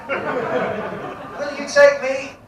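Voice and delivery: put-on slow, pained old man pleading, then a high cry; creaky old codger begging for help then yelping; old man stuck. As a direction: play a stiff old man who can't get up. Old man stuck on one knee.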